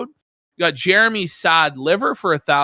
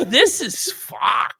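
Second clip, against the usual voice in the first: tag; 4 semitones higher, much slower than usual. Retold or imitated. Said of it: "He's like".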